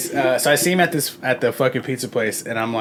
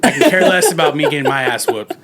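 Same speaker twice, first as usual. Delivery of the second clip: retold threat; 4 dB louder than usual. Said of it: "pretty much threatening him".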